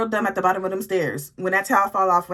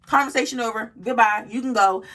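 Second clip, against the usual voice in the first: curt brush-off; dismissive; 2 semitones higher, 4 dB louder than usual. Retold or imitated. Ending the argument with the roommate, curt and dismissive. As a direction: wave her away. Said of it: "I said".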